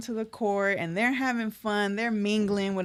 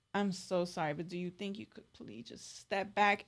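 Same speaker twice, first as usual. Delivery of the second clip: soft polite request; 10 dB quieter than usual. Retold or imitated. Politely asking a rapper to step back.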